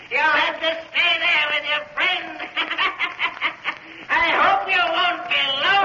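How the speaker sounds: mock them through your laughter; laughing gloat. Villain gloats over trapped men.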